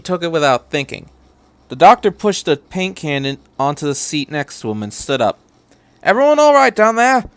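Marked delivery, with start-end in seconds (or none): 6.0-7.2 higher, louder call down the car. A narrator's reading. Doctor calls to passengers down the dark car, raised voice.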